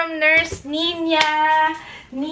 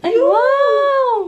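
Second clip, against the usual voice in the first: higher, louder happy outcry; delighted cry; 9 semitones higher, 5 dB louder than usual. Real, not acted. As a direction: burst out in joy. Delight at camera working. (tuwang-tuwang sigaw)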